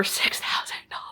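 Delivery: whispered in disbelief. Real, not acted. Vlogger whispering the shocking cost to viewers. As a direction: breathe the number out, stunned.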